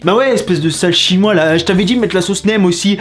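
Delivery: mock-angry restaurant rant; frustrated customer. Customer cheated of his all-you-can-eat menu, frustrated mock rant. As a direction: play a fed-up diner, pitch lifted in complaint. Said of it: "tu sens le mec frustré".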